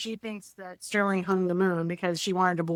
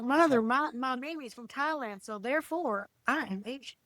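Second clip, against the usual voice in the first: imitated earnest cowboy son, higher; heavy Southern accent; 4 semitones higher, 4 dB quieter than usual. Son arguing to mother he's Asian, imitated Southern accent. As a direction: mimic a country boy's argument. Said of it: "he has his heavy accent".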